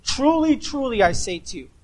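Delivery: "Truly" pitched high and stressed, then settling; solemn repeated "Truly", the first one ringing high; emphatic repetition. Retold or imitated. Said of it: "He would repeat himself".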